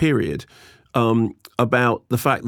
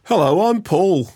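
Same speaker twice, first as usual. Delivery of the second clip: put-on high, slow Liverpool-accented Paul greeting; Scouse Paul; 7 semitones higher than usual. Host imitates a singer's intro in a high, slow Scouse accent. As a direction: do a Scouse singer saying hello, drawn out. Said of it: "the other person who does that?".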